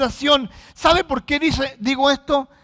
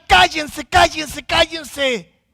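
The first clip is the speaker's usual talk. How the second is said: repeated, raised order to hush; imitated scolding; 3 semitones higher, much slower than usual. Crowd telling noisy blind beggars to shut up, mock scolding. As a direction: act out an exasperated crowd. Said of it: "Cuanto más les decían".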